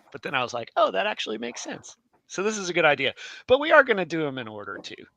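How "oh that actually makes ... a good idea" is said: high-pitched, pleasantly won-over reaction; dawning realization. Retold or imitated. Coming round to Jason's idea, high dawning realization. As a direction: let the penny drop, pitched high.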